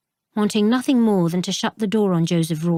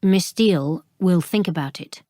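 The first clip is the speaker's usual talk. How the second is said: level, firm think with a falling close; firm repeat. Acted. Jack steps in to shield Flora, firm and final. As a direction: lean on think, closing the matter. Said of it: "he repeated".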